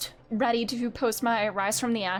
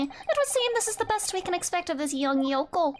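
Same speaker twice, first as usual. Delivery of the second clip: mocking prosecutor; 7 semitones higher than usual. Reading prosecutor's mockery in voice.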